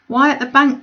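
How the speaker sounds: surprised. Acted. Sister's sharp question.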